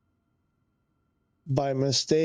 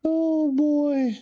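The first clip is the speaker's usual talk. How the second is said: dismayed surprise; 12 semitones higher, 4 dB louder than usual. Real, not acted. Streamer spotting another problem, higher and louder. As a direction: exclaim at yet another problem. Reacting to new trouble.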